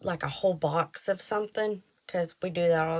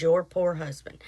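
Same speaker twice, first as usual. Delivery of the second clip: mock pitying tone, lower; condescending; 4 semitones lower, 4 dB louder than usual. Man in store pitying her husband, mock condescending. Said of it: "it was the way he said it".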